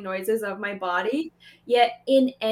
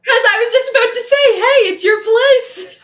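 loud, high outburst breaking into laughter; excited laughing; 11 semitones higher, 10 dB louder than usual. Real, not acted. Teasing the cohost that it's their place, excited laughing. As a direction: blurt it fast, then stretch the end through laughs.

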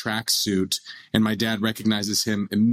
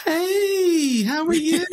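much higher, gushing southern-belle hello; starstruck sweet greeting; 4 dB louder, much slower than usual. Retold or imitated. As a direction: switch from pain to sugary charm in an instant. Mom turns sweet on seeing Tyson.

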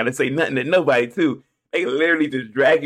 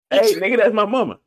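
protesting son; 7 semitones higher, 4 dB louder than usual. Pretend.

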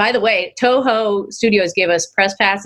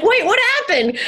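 high, laughing disbelief; retold bewilderment; 13 semitones higher than usual. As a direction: squeal it in mock alarm. Retold startled reaction to accent.

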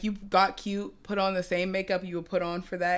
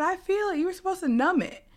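mock panicked yell; 11 semitones higher than usual. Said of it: "And I'm screaming".

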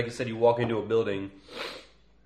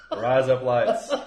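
slow, laughing try at an Australian accent; louder Australian-accent attempt through laughter; 5 dB louder, slower than usual. Shown as a demonstration. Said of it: "trying to say it in an Australian accent".

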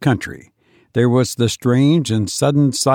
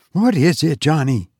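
irritated; 3 semitones higher than usual. Acted. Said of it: "Her voice was irritated".

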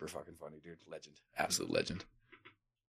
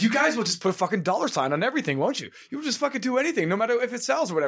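higher, mock ranting comedian; imitating Bill Hicks rant; 10 semitones higher than usual. Retelling Bill Hicks' rant at marketers, mock ranting. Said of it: "'Cause it's just like".

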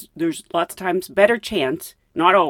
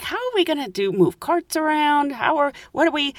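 flustered questioning; 7 semitones higher than usual. Retold or imitated. Acted worried attendant.

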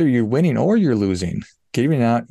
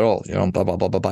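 dismissive blah blah; 3 semitones lower, faster than usual. Retold or imitated. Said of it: "And she said".

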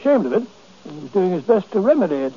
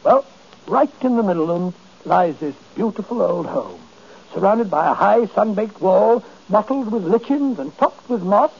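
lyrical, savoured scene-painting; rising into florid, romantic description; poetic description. Acted. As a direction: wax poetic, lingering over each image. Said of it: "You may omit the poetry".

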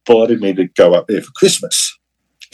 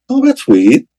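high, rising surprised oh; a sudden jolt of surprise; a strongly lifted surprised remark. Retold or imitated. Surprised by familiar surname.

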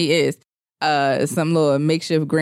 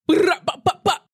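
little Jamaican; 9 semitones higher than usual. Shown as a demonstration. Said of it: "That was a little Jamaican".

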